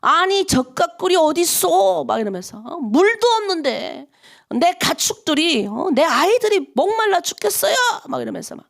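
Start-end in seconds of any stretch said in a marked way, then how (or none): 0.0-2.0 high, drawn-out mock grumbling; whining protest, slightly hammed-up; grumbling complaint. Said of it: "불평하는 거예요". 2.7-7.8 high, drawn-out mock protest; hammed-up plaintive grumble; grumbling complaint. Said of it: "불평하는 거예요".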